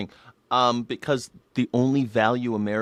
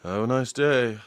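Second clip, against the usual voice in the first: idle store attendant; 5 dB quieter than usual. Retold or imitated. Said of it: "just a guy standing there like".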